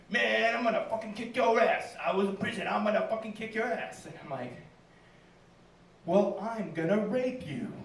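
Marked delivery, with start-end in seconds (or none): 0.1-4.0 moderately raised, higher-pitched street threat; mock angry yelling. Comic imitating a man who starts yelling at him, mock angry yell. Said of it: "he starts yelling at me". 6.0-7.7 drawn-out, deliberate comic comeback; slow mock threat. Comic raising the stakes on his attacker, slow mock threat.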